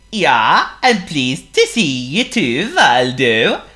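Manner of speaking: lightly voiced, bright cheerful snowman; a hint of a jolly snowman. A narrator's reading. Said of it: "replied Sven".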